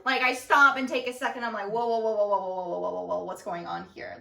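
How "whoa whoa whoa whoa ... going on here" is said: goofy. Retold or imitated. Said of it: "goofy way".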